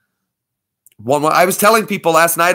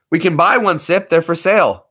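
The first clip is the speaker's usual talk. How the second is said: sudden delighted rise; thrilled at finding one; excited; 3 semitones higher, 3 dB louder than usual. Real, not acted. Repeats discovery excitedly.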